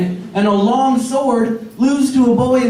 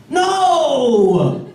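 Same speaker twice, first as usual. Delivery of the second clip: appalled shout; 7 semitones higher, slower than usual. Retold or imitated. Pirate crew scolds the killer.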